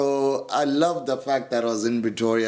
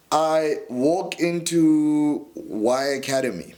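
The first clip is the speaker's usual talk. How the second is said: ordinary talk, nothing marked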